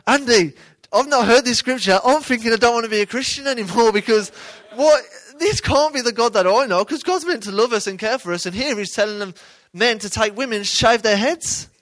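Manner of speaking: doubting listener. Retold or imitated. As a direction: protest like a troubled believer who can't accept it. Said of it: "we're reading this going".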